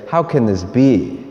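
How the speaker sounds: flat, doubting, slowish; doubting, dismissive question. Retold or imitated. Priest voicing the Jews' disbelieving question. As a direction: ask it already sure it can't be. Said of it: "the Jews that say".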